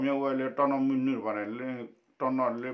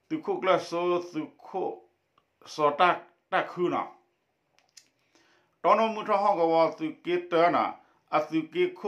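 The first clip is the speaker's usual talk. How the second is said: raised, projected read-aloud voice; 6 semitones higher, 5 dB louder than usual. Acted. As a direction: read the text out to a class in phrases. Reads a text aloud.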